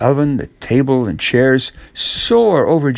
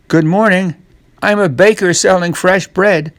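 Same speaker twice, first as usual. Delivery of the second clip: higher, cheerful peddler's voice; baker; 6 semitones higher than usual. Acted. Jack in disguise greeting the woman, cheerful. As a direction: sell it like a baker at the door. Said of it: "disguises him as a baker".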